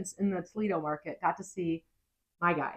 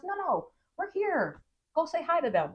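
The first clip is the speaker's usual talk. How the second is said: insistent urging; 9 semitones higher than usual. Retold or imitated. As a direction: lean on him to go say hi. Husband insisting she greet crew.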